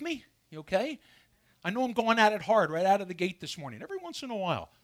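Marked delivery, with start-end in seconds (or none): 1.6-3.8 fired up. Real, not acted. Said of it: "I get a little fired up".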